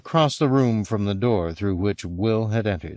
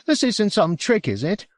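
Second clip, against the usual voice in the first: anxious suspicion; 11 semitones higher than usual. A narrator's reading. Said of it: "studying Will with some suspicion".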